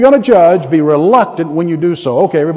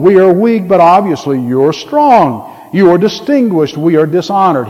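measured mock humility; pointed contrast of we and you, lightly sarcastic. Paul to the puffed-up church, sarcastic mock deference. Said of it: "He's being very sarcastic".

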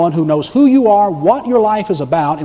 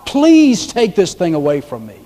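slow, acted plea, raised at first; pleading prayer; 4 semitones higher, slower than usual. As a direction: plead with God, drawing out the words. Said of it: "he enters into prayer".

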